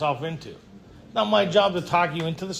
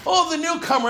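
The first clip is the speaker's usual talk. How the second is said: mock sneer; 10 semitones higher, 3 dB louder than usual. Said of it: "And he goes".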